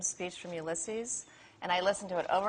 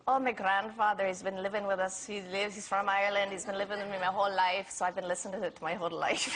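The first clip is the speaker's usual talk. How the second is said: a light Irish lilt, quick and chatty; lightly voiced Irish accent, fibbing at an audition; retold Irish accent. Telling the director her Irish grandfather story in a light Irish accent. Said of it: "I totally lied".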